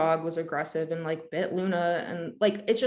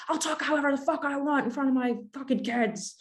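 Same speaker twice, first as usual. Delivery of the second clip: higher, put-on defiant voice; imitated rude man; 7 semitones higher than usual. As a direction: sneer it back like a rude stranger. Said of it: "And he's like".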